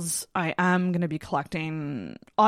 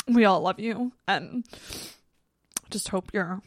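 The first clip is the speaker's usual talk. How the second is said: tearful goodbye; 3 semitones higher than usual. Real, not acted. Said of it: "I know I don't sound okay right now".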